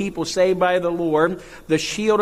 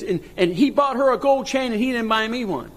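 imitating the hurt wife; 6 semitones higher than usual. Pastor retells crying wife's complaint.

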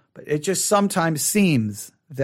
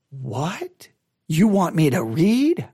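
mock disbelief; 2 semitones lower, slower than usual. Acts out listener's shocked objection.

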